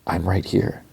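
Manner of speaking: softly spoken retold reply; small, quiet quoted voice. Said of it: "quietly she's like".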